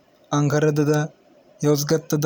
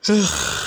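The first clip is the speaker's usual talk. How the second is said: yawn; 5 semitones higher than usual. Real, not acted. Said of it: "Şu an esnedim".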